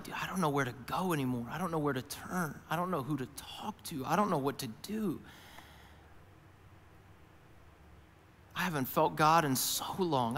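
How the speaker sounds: soft, mildly despondent confession; lost and discouraged. Acted. Preacher voicing a believer lost in a storm, quietly discouraged. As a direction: say it quietly, as someone at a loss.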